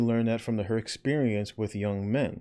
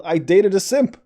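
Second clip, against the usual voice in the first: "I Dated a Simp" shouted high and loud; loud incredulous title call; exasperated shout; 8 semitones higher, 9 dB louder than usual. Real, not acted. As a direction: spit out "I Dated a Simp" in disbelief.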